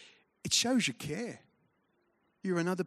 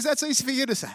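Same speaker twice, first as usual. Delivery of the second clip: much higher, offended pig voice; the pig balks at giving bacon; squeaky affronted pig; high indignant pig; 10 semitones higher, 3 dB louder, faster than usual. Acted. Pig's punchline.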